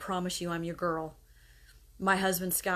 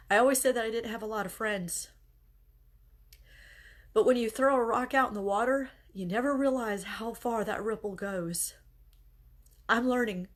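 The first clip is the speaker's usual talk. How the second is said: holding back tears; 4 semitones higher, 3 dB louder than usual. Real, not acted. Grieving mother fighting tears while thanking her viewers, tearful. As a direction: voice pitched up, close to tears. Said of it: "I'm trying not to cry again".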